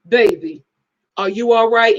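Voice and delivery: a hint of mom seeing right through you; Black mom voice. Mom asking her child twice, probing mom voice. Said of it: "the black mom does this".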